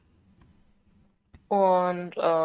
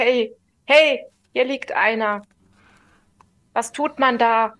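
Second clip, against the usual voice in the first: calling out; 3 semitones higher, 4 dB louder than usual. Acted. Calling the group over.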